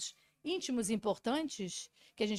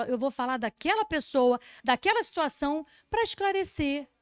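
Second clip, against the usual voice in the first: example wording; 3 semitones higher, 6 dB louder than usual. Retold or imitated. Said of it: "eu falo".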